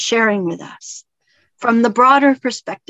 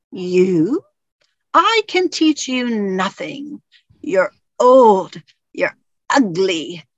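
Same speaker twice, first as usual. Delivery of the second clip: lightly acted drawn-out disdain; scornful monk; slower than usual. Little monk insults the big samurai, acted slow scorn. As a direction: stretch out each mock insult with contempt.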